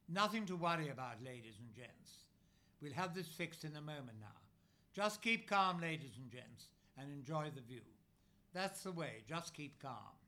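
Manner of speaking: a lightly voiced North Country fairground announcer; booming North Country reassurance over a tannoy, understated; North Country accent. Operator calming riders over the loudspeaker, mild North Country accent. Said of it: "a North Country accent voice boomed".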